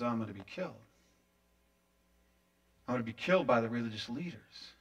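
low, soft, subdued announcement; quiet, sober. Acted. Jesus breaking news of his death to Peter, quiet. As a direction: drop right down, pausing gravely.

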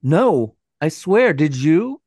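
high, loud panicked denial; panicking, swearing it wasn't her; frightened. Acted. Terrified girls after the bang.

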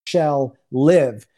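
slow, measured retold prayer declaration; weight each phrase like a prophecy; prophetic prayer. Guest praying over a man's grandson, prophetic declaration. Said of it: "I let the prophetic word come out".

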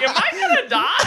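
quick, squeaky mock-panicked kid; high-pitched bitch voice. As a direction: ask dad in frightened falsetto, hammed up. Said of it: "a high pitched fucking bitch voice".

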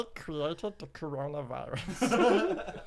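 slow, lightly voiced alien creature; a hint of Stitch, drawn out. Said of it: "hear Stitch saying fucked up shit".

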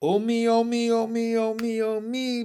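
high, loud, chanted wail; keen it over and over; woeful run-on moan; wailing lament. A narrator's reading. Narrator frog wails over Pin.

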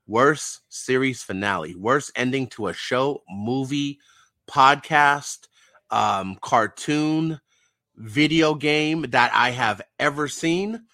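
exasperated ranting list; 1 loud rant. Real, not acted. Ranting about the finale.

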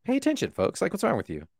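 high, loud disbelieving rant; can't believe people missed it; incredulous. Real, not acted.

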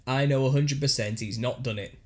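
a light put-on northern English accent, quoting the brother; reading a brother's quote in a mild northern English accent. Podcast host reads the brother's defence aloud, light northern English accent. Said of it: "Stop putting the accent on".

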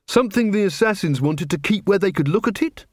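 a hint of Angua, thoughtful; young female guard offering a guess. A narrator's reading. Angua's voice in the story.

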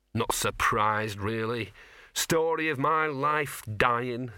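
slow, weary dog; resigned. Acted. Dying dog talks to Death, slow and resigned. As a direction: shrug off your own death slowly.

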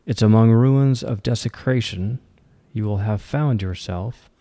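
measured poetry reading with pauses between lines; poem recitation. Acted. Host reads an independent author's poem Artistry, poem recitation. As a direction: recite it line by line, deliberately.

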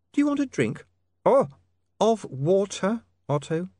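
a gentle tease; teasing young lady. A narrator's reading. Sacharissa offers.

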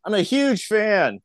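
high, slow, star-struck gush; gushing fan. Retold or imitated. Stranger on the ferry gushing to Jerry, high and slow. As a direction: lay it on like an adoring fan.

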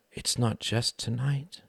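understated emptiness; empty voice. A narrator's reading. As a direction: say it drained and slow. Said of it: "she said in an empty voice".

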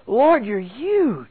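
slow, drawn-out awe; awed. Acted. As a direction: stretch it out in acted wonder. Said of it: "feel the presence of him speaking".

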